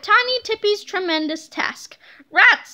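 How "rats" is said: loud, higher angry outburst; villain watching the boys vanish; frustrated scream. A narrator's reading. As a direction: spit out the curse. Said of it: "screamed Tippy".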